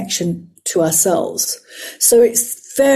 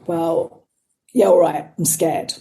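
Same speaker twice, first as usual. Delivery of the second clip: admitting fear; 5 semitones lower than usual. Retold or imitated. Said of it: "gestalt therapy here".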